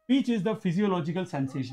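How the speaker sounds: very slow, word by word dictation. Shown as a demonstration. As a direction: read it out slowly for notes. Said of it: "dictating definition slowly".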